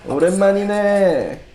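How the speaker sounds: a hint of menacing loan shark. Shown as a demonstration. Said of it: "these loan shark tone".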